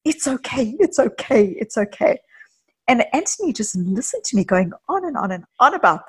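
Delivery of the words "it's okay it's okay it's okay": mock soothing repeat, rising a little on the first; a lightly voiced anxious parent calming a baby; imitating soothing. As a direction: retell your own soothing words, lightly acted. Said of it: "I said".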